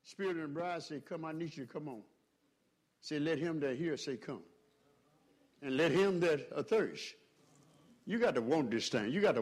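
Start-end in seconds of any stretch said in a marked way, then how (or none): 0.0-7.2 much softer, intimate reading of scripture; soft, near-hushed invitation to come. Acted. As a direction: drop right down and draw them in. Scripture dropped to a hush.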